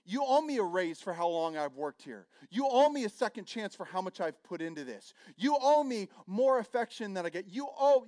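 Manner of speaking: repeated owe stressed, falling; wounded insistence; resentful demands. Retold or imitated. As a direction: list the debts, stress on owe. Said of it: "it'd be expressed like this".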